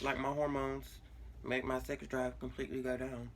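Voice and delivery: talking through a face mask. Real, not acted. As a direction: speak through a mask covering the mouth. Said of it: "Ignore the mask".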